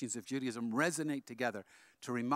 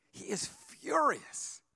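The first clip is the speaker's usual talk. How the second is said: dramatic whisper; 12 semitones higher, much slower than usual. Real, not acted. Dramatic aside about angry student.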